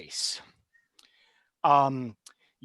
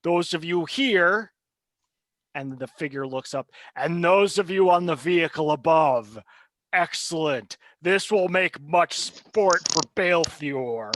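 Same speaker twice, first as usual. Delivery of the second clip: gloating villain; 4 dB louder than usual. Acted. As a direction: savour the new victims. GM voices the villain figure.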